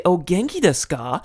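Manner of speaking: Japanese phrase in a lightly thickened American accent; thick foreign accent. Shown as a demonstration. An American greeting a coworker in Japanese, mild thick-accent joke. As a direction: ham up the foreign accent on "genki desu ka" a little. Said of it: "and thicken up the accent a little bit".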